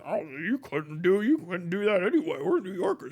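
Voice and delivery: lightly voiced dismissive New Yorker; mock New Yorker. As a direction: look down your nose like a New Yorker. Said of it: "New Yorkers going".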